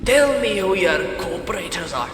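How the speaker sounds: forceful, hammy British jailer; British accent. Acted. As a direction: demand it in a put-on British voice. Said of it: "I'm gonna do a British voice".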